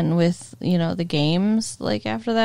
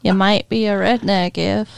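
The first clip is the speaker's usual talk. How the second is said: put-on a weak stab at a Southern accent, laughing through it; barely-there Southern accent; attempted Southern accent. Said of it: "That was my attempt at a Southern accent".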